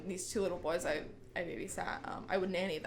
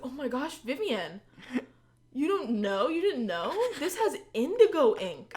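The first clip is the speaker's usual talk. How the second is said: raised, mock-grave warning, building louder; retold fake alarm; 5 semitones higher, 4 dB louder than usual. Big sister tricking her sister about ink, fake alarm. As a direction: feign horror to trick a little kid. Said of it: "I also love playing tricks".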